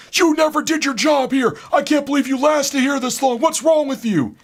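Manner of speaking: high, loud angry rant; mock flipping out. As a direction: explode at the clerk in a put-on voice. Cleaner flipping out on him.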